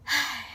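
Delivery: heavy sigh. Real, not acted. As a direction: let out a sigh before going on. Weary pause before bad turn.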